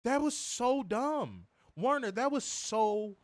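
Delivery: high, drawn-out disbelief; slow, fed-up complaint; exasperated. Real, not acted. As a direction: stretch it out, appealing to your co-host. Exasperated verdict to co-host.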